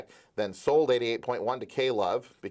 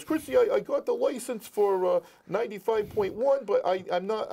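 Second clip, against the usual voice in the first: put-on Rhode Island accent, much higher and louder; hammed-up Rhode Island accent; Mike Cardillo impression; 12 semitones higher, 3 dB louder than usual. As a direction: play a Rhode Island mobster type. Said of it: "who still has a Rhode Island accent".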